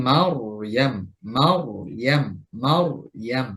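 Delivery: মাওয়াম slow with a thick sukun র; correct heavy ra. Shown as a demonstration. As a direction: model মাওয়াম slowly three times. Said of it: "বরং হবে".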